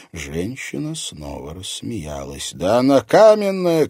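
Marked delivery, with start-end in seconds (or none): 2.5-3.9 loud, high pained shout. A narrator's reading. Man shouting to a comrade after hurting his hand. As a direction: yell out in shock and pain. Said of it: "крикнул он кому-то".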